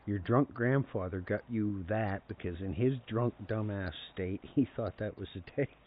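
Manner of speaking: retold disapproving explanation; imitated grandma. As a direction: spell it out like a fed-up grandmother. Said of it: "my grandmother's like".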